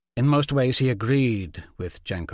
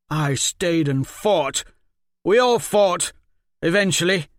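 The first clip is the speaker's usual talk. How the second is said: loud, higher insistence; defensive protest; 8 semitones higher, 6 dB louder than usual. Acted. Stefan insists he fought, loud defensive protest. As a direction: defend yourself.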